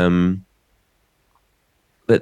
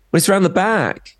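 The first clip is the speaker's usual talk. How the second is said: mock chip shop man; 11 semitones higher than usual. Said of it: "the man at Banny's went".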